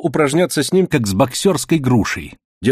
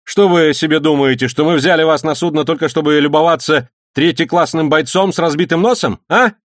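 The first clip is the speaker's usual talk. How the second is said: loud mocking rebuke, pitched up; stern taunting; 6 semitones higher, 3 dB louder than usual. A narrator's reading. Mate taunting the cook on purpose, loud stern mockery. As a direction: jeer at him for a third-rate boxer. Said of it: "строго спросил помощник".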